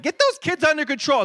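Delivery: voicing the disciples. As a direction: toss it off as an irritated disciple. Disciples voiced scolding the children.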